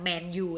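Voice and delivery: "menu" said like Man U; English pronunciation. Shown as a demonstration. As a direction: say "menu" close to the team name, MEN-yoo. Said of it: "ออกเสียงคล้ายๆกับ". (ออกเสียง "menu" คล้ายแมนยู)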